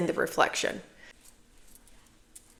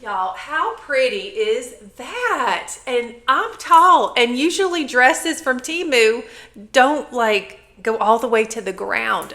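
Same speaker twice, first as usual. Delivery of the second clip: louder, higher teacher voice; 5 semitones higher, 5 dB louder than usual. Real, not acted. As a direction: project like a teacher to the class. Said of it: "I'll put my teacher voice on".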